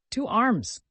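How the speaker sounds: put-on hoarse drunken battle cry; yelling. A narrator's reading. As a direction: roar it like a crazed old soldier. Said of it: "he yelled".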